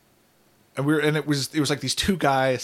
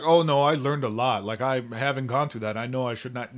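imitated Russian accent, learner's English; mock Russian accent. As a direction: quote the beaten fighter in a Russian accent. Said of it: "It was totally Russian".

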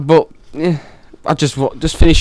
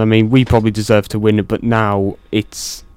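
heavy breaths on the microphone; heavy nose breathing; 3 semitones lower than usual. Real, not acted. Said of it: "Andrew, stop breathing into the mic".

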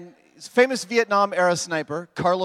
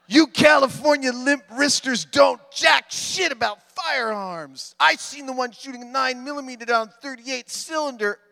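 angry redneck voice; 7 semitones higher, 4 dB louder than usual. Retold or imitated. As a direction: play an irate gun nut writing in. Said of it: "guessing what his voice sounded like".

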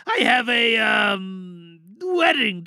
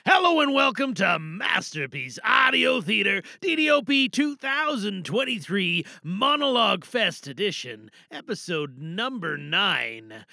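show host intro. Acted. Host opens the podcast episode with an announcer welcome. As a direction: open the show with gusto.

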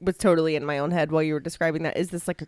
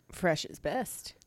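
whispering; 2 semitones lower, 9 dB quieter, slower than usual. Real, not acted. Dark joke aside, half-whispered.

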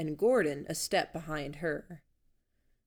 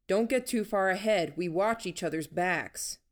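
louder warning called ahead; calling out; 3 semitones higher, 3 dB louder than usual. Acted. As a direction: shout after her to stay close. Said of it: "Gordon called out".

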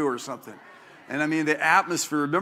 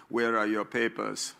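stern official; 7 semitones lower, 5 dB quieter than usual. Retold or imitated. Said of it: "the Eastern Bloc, they're really into bureaucracy".

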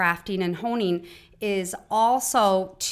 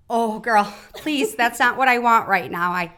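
louder, pleading to be let off the therapist treatment; exasperated loud plea; 6 dB louder than usual. Retold or imitated. Daughter to her therapist mother, exasperated loud plea. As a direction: push back loud and half-laughing: I just need my mom. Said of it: "and I will say".

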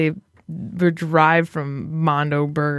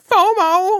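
mimicking friend; 11 semitones higher, 4 dB louder than usual. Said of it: "he's all over here like".

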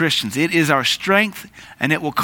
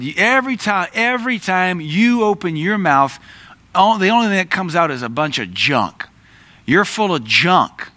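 mock-angry accusation, raised pitch; irritated outburst; 5 semitones higher than usual. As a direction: replay your own angry snap at a coworker. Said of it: "I got real irritated with a coworker".

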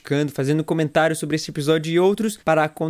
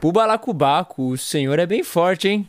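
repeating as told; 2 semitones higher than usual. Shown as a demonstration. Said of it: "Não, fala nessa entonação".

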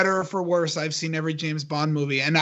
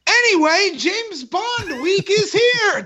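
hyped announcement; 12 semitones higher than usual. Pretend. Co-host kicking off James Bond week, hyped announcement. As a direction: belt it like a big show opener.

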